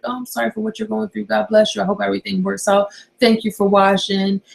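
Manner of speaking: mock-sweet sign-off to a troll; sugary, faux-kind farewell; really sweet note. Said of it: "end it on a really sweet note".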